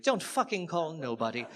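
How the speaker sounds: menacing street diction, imitating the mugger; same diction as mugger. Comic repeating the mugger's warning in his diction. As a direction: growl it like the mugger did. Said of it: "with that same diction".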